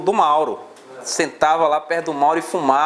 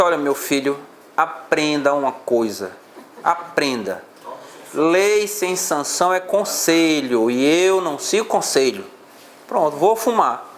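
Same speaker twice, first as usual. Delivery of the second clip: lightly imitated hoarse old-hand teacher, slow and deliberate; unhurried imitation of a husky-voiced professor; Castelo's hoarse drawl; 2 semitones lower, slower than usual. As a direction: draw the words out like a mentor laying down a maxim. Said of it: "com aquela voz dele característica".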